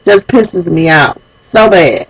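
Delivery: fighting back real tears while angry; real crying. Real, not acted. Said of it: "I'm sorry, I'm crying".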